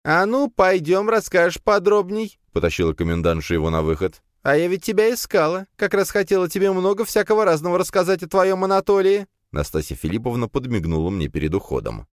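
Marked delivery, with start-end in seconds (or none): 0.0-9.3 high, brisk motherly woman; bustling commandant. A narrator's reading. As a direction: coax him out, high and busy. Commandant voiced by narrator.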